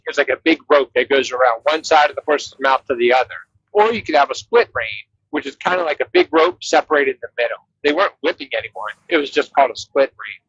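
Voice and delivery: thin, tinny radio sound with no bass; like talking through a walkie-talkie. Real, not acted. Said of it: "you sound like you're on a walkie-talkie right now".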